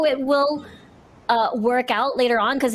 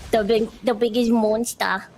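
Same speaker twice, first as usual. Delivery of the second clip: uwu voice. Real, not acted. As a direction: slip into a cutesy uwu voice. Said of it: "I don't know why I did an Uwu voice there".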